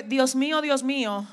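hushed lament; anguished cry of Jesus. Retold or imitated. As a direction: voice Christ's forsaken cry quietly. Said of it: "la próxima palabra fue".

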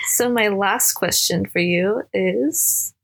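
slow, drawn-out question lilting up; nervous slow lead-in, pitch climbing; odd, high-ending voice. Real, not acted. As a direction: stretch it out, ending on a rise. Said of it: "I don't know why I sound like that".

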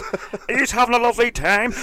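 high, loud cheery hostess call; bubbly drag hostess. Retold or imitated. Drag queen greeting a living-room party, loud high.

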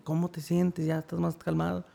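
lightly voiced mother's concern, kept quiet; madre preocupada imitada. Madre consuela al hijo por teléfono. (madre preocupada, en voz suave y aguda)

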